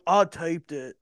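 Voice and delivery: put-on loud, high hick kid voice; white trash kid. White trash kid bragging at school, loud mock hick voice. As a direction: crow it like a proud redneck boy. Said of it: "this white trash kid".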